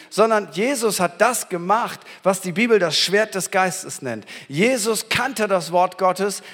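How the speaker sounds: ordinary delivery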